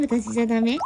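a coy, pouting little ask; mock coy plea; cute pleading line. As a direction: plead sweetly like a spurned pet. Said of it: "私じゃダメですかって言ってみよう".

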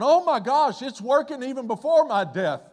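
God delighted at the change, calling out with joy; excited God. Acted. Preacher voicing God, thrilled that it works, excited exclaim. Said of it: "He's going".

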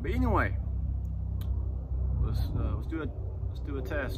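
bottle pressed near mouth; talking past drink bottle; speaking with bottle at lips. Real, not acted. Seen 0: Bottle top held against lips while speaking; drinking follows.

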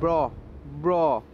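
jumpy yelp at the screen; scared horror game streamer. Real, not acted.

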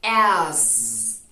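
As said loud with a buzzing voiced "z" ending; z sound. Shown as a demonstration. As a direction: hold a voiced "z" at the end of As. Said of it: "la Z vibra en las cuerdas vocales".

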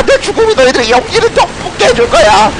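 lightly hammed-up last words; rally them with mock-heroic dying words; dying hero's speech. 죽으며 비장하게 연설함. (살짝 비장한 영웅의 유언)

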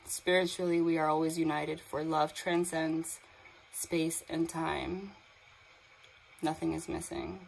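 slow, deliberate reading of a card's message. Acted. Psychic reading the card's message aloud to viewers, slow and solemn. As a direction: let each word land slowly, like a blessing. Reads the card message slowly.

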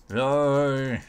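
drawn-out pretend monster roar; mock roar. Player in overpowered armour, playful mock roar. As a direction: roar playfully without full force.

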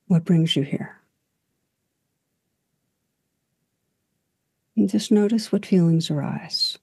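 calm guided reflection, long unhurried pauses; guided meditation. Real, not acted. Teacher guiding listeners into stillness and breath, calm meditation voice. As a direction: gently lead listeners inward, leaving space after each phrase.

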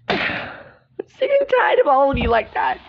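exasperated, half-crying shout; sigh, then burst out at everyone; fed-up outburst. Acted. Serena fed up with all her friends, fed-up outburst. Acted meltdown with sighs.

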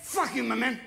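lightly voiced drunk picking a fight; hammed-up bar drunk demanding attention; mock belligerent drunk. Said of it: "Alcohol changes your mood sometimes".

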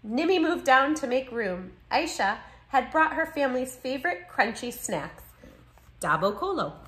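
expressive picture-book read-aloud; story narration. A narrator's reading. Narrator telling children how new friends share foods, story narration. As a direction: read with lively, clear phrasing for children.

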